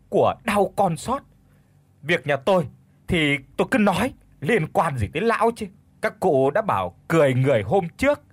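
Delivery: acted screeching village-wife scolding; yelling in distress. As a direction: snap back at the mocker, aggrieved over your loss. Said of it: "đã xót quá nên đã gào lên".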